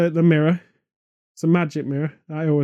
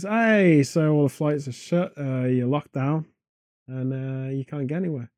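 tannoy announcer; 3 semitones lower than usual. Acted. Tannoy telling stranded passengers about lockdown, mock announcement. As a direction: announce it casually over the tannoy, slowing down. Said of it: "Tannoy kicks in at this point and goes".

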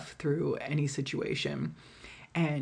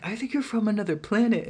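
higher, fast teasing imitation; mock baffled guy; 5 semitones higher, faster than usual. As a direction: mimic his bewildered verdict. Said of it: "He's like".

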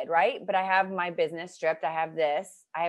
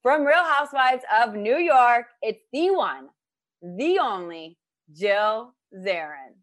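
show announcer; 3 semitones higher, 4 dB louder, slower than usual. Acted. Introducing her like a show host.

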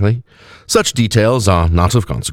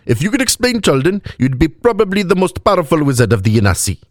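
sage advice; 9 semitones higher than usual. A narrator's reading. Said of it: "the woman said sagely".

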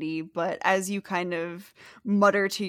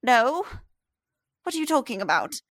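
lightly voiced chatty old lady; old woman; 3 semitones higher, 3 dB louder than usual. The fisherman's wife explains to the stranger where he is, chatty.

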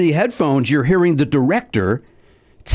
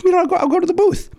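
inner thought; faster than usual. Retold or imitated. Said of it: "I was like".

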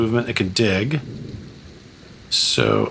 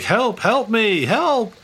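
high, drawn-out cries without real volume; mock yell for help; 10 semitones higher, slower than usual. Guy swept downriver waving madly from a cart, mock yelling. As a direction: play a frantic man calling for rescue. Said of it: "yelling for help".

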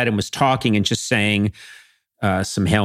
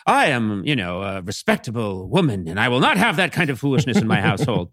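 prim mother. Retold or imitated. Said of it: "she had this very kind of".

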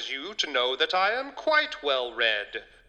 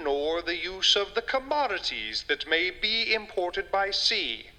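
reading a passage with gravity; dramatic reading. Acted. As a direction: read it like a solemn old text. Reads Hobbes passage aloud.

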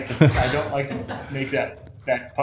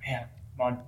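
mock proud; 5 dB louder, slower than usual. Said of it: "I think to myself".

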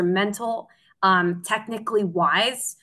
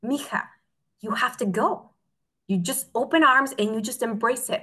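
super calm mother; 3 semitones higher than usual. Retold or imitated. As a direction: gently reassure your daughter, retelling Mom's words. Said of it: "she was super calm".

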